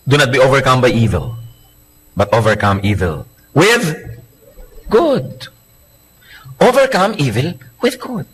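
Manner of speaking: slow scripture reading. Acted.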